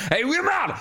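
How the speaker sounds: a lightly voiced over-the-top Scottish yell; extreme Scottish accent. Mocking her own only Scottish voice, exaggerated Scottish accent. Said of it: "I've only got that extreme version".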